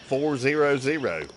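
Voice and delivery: slow, deliberate digit by digit "Four zero zero"; spelled out slowly. Real, not acted. Repeating the number for a doubting friend, slow and deliberate. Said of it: "How many times I need to say it".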